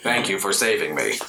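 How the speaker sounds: flat monotone, no tune at all; deadpan thanks, no inflection. Shown as a demonstration. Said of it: "He talks in a monotone voice".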